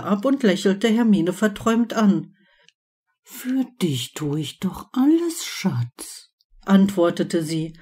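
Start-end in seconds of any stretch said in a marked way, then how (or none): 3.2-6.3 dreamy and tender. Acted. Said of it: "Wie eine Traumtänzerin".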